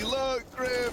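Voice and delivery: high, drawn to the player; amazed exclamation. Real, not acted. Caster hails the player after his clutch, amazed exclamation.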